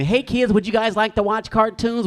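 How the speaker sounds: high, sing-song mom offering cartoons; sweet mom voice. Mom innocently offers cartoons to kids, high sweet voice. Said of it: "Then she would walk in".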